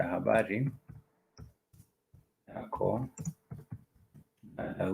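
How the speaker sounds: "habari ... yako ... dada" with long pauses after each word. Shown as a demonstration. Teacher drilling a Swahili greeting for learners, word by word.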